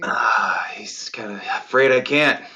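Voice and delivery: unvoiced whispered aside. Real, not acted. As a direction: whisper it off to the side.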